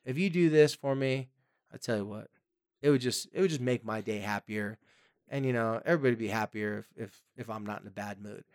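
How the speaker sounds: friendly deal. Shown as a demonstration. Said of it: "Talk to them like a person, just like a friend".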